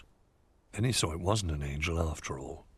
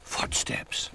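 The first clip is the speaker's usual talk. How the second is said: gasped. A narrator's reading. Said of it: "he gasped".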